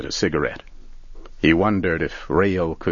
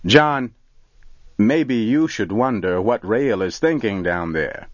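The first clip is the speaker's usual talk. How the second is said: high call after him; 5 semitones higher than usual. Acted. Barry calling after John as he walks to the truck. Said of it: "Barry called out".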